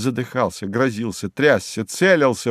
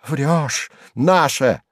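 spiteful retort; 4 semitones higher, much slower than usual. A narrator's reading. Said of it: "зашипел от злобы".

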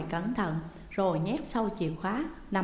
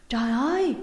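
louder, higher, horrified wail; loud cry of alarm; 5 semitones higher, 5 dB louder than usual. A narrator's reading. Wife discovering her husband cold, crying out in horror. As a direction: cry out in shock. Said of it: "Tiếng kêu của bà ta khá lớn".

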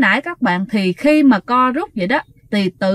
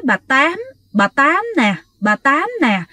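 imitating a possessed woman's halting, effortful speech; strained, stammering; 3 semitones higher than usual. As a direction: push out each short phrase haltingly, like someone stammering. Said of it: "nói mà cái kiểu như rặn á". (giọng rặn, lắp bắp như bị nhập)

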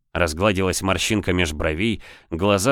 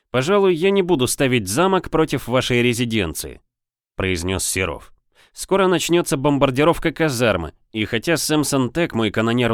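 a hint of a smug captain; confident corsair captain; 5 semitones higher than usual. Serov threatens the governor.

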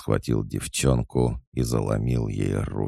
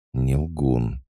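plain reading voice

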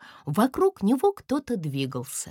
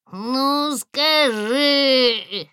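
high, loud drawn-out whine; whining ну скажи by the fire; 6 semitones higher, 6 dB louder, much slower than usual. A narrator's reading. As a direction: nag like a spoiled child. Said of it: "заныли у костра".

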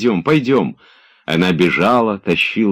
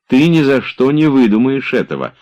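louder, higher, pleased with herself; proud; 9 semitones higher, 6 dB louder than usual. A narrator's reading. Olga proudly boasting to Oblomov of her trick. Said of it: "прибавила она с гордостью".

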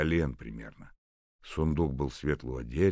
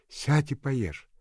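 higher, slow, urging to eat; coaxing nurse; 12 semitones higher, 7 dB louder, much slower than usual. A narrator's reading. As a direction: coax her gently to eat.

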